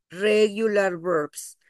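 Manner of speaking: slow, drawn-out "regular verbs"; stress on "regular verbs". Shown as a demonstration. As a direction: stretch "regular verbs" to set it apart. Teacher stresses regular, not irregular.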